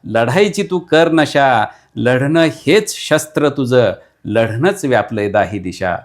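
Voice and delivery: fiery declaimed verse, building to a call to fight; rally the listener to fight, line by line; rousing poem recital. Acted. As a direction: poet declaiming a battle poem to the audience.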